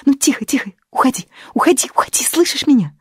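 high hushed whisper, pleading; urgent whisper. A narrator's reading. Sasha holds Fyodor back, urgent whisper. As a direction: whisper him away urgently.

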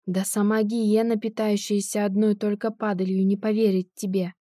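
usual speaking voice

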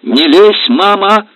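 high, loud cry to back off; shout. Acted. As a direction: stop her mother cold. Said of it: "крикнула Лида".

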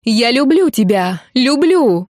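громко и выше, надрывно; прокричать признание в отчаянии; отчаянный крик. Acted. Алина кричит Антону о любви. (отчаянный громкий крик)

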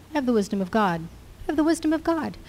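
a quiet mutter building into a lifted confession; rising declaration. Shown as a demonstration. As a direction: let it climb as conviction grows. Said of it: "muttering to yourself".

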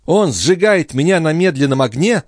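very high, loud, indignant cry; very high, loud young woman; shrill exclamation. A narrator's reading. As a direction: rail against his hypocrisy. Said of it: "воскликнула девушка".

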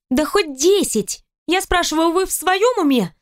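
spitting out water; sputtering through water; mouthful of pool water. A narrator's reading. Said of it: "Отплёвываясь от воды".

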